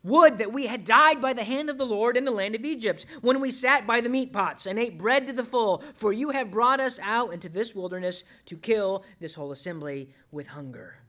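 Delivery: hammed-up grumbling of a discontented crowd; grumbling complaint. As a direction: complain bitterly, then sink at the end. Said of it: "They murmured".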